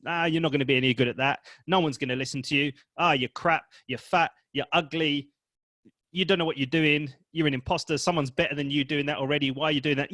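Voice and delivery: fast, nagging inner critic, lightly voiced. Coach voicing the unsupportive ego voice, fast and nagging. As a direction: rattle off the put-downs quickly. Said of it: "this unsupportive voice that says".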